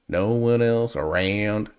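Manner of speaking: "No one else around." slowly drawled in a light Southern twang; imitating Southern twang. Reactor imitating the singer's Southern drawl on "around". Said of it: "that Southern twang".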